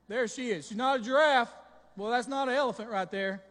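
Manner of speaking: loud, emphatic excitement; excited Adam. Acted. Preacher acting Adam comparing Eve to the animals, excited. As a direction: marvel loudly, punching each denial. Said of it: "jumping up and down and saying".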